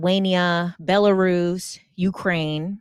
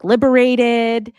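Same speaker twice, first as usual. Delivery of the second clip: loud, drawn-out questioning word; higher, louder incredulous question; retold incredulity; 4 semitones higher, 7 dB louder, much slower than usual. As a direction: stretch it out loudly in disbelief. Retold friend's incredulous question to man.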